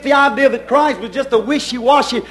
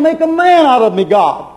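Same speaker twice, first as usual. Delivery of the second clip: retold prayer, pleading. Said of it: "I thought".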